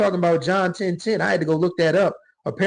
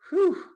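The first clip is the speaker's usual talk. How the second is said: emotional whew; 13 semitones higher than usual. Real, not acted. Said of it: "got me emotional talking about it".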